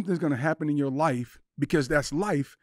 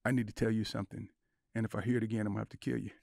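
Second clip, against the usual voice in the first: mock threat; 3 semitones lower, 6 dB quieter, faster than usual. Retold joking threat, softer.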